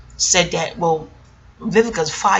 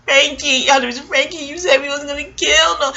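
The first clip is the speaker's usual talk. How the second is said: high, put-on voice of a scolding woman; Vivica Fox character; 7 semitones higher than usual. Retelling a movie scene to viewers, high mock scolding voice. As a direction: hit the higher pitch as the angry movie character. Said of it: "Vivica Fox character".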